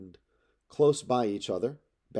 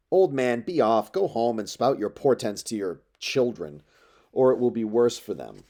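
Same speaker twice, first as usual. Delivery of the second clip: put-on louder, dismissive, brushing the old man off; scornful rebuke; 5 dB louder than usual. Eurymachus dismisses the old prophet, loud and scornful. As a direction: contempt spat at an elder.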